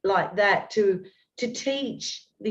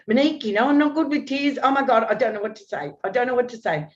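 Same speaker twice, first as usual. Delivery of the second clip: higher, flustered man out of his depth; flustered trainer; 4 semitones higher, much faster than usual. Retold or imitated. Personal trainer flustered by her crying, higher pitched. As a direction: throw up your hands at the tears. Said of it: "He'd, he'd say".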